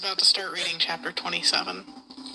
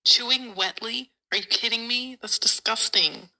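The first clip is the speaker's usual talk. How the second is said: rising, appalled repeat of "Chewing wetly", slowed down; disgusted disbelief; 2 semitones higher than usual. Real, not acted. Reader grossed out by the author's phrase, appalled repeat. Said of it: "appalled by imagining the sound".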